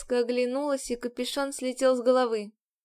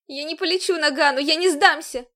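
sobbing; 4 semitones higher, 6 dB louder than usual. A narrator's reading. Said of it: "В голос зарыдала я".

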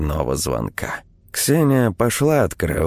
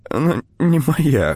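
high, slow, tearful pout; sniffly protest; 9 semitones higher than usual. A narrator's reading. Ksenia answering Klim's comfort, tearfully sulking. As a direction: object weakly after crying. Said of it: "шмыгнула носом Ксения".

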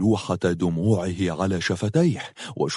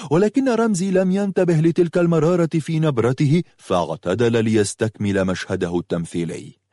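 ordinary delivery

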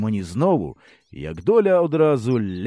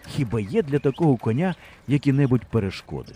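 ordinary delivery

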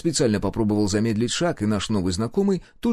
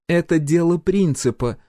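higher, slow emphatic declaration; menacing; 8 semitones higher, 4 dB louder than usual. A narrator's reading. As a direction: state it slowly as a threat. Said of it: "Она угрожающе прищурилась". (с угрозой, с расстановкой)

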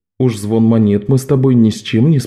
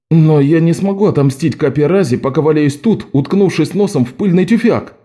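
higher, heated exclamation; angry; 4 semitones higher than usual. Acted. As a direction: boil over with frustration. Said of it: "воскликнул Лок, снова вскипая гневом".

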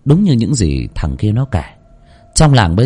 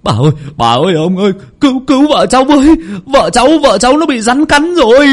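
rising to a much higher, louder yell; desperate cry for help; 4 dB louder than usual. A narrator's reading. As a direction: scream for rescue, climbing in panic. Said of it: "người nọ gào lên". (gào lên cầu cứu, cao và to dần)

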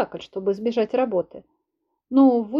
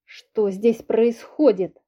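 growl; much slower than usual. Acted. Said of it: "прорычала я".

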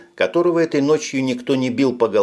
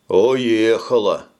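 slow, sighing answer; sighing reply; 3 dB louder, much slower than usual. Acted. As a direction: breathe it out with a sigh. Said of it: "вздохнул простатит". (со вздохом)

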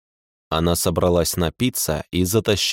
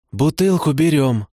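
tipsy hiccup; 5 semitones higher than usual. A narrator's reading. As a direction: say it with a drunken hiccup. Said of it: "кивнула моя спутница и икнула".

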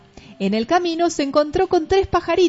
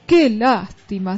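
lamenting; 3 dB louder, slower than usual. Acted. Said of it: "se lamentó el monstruo".

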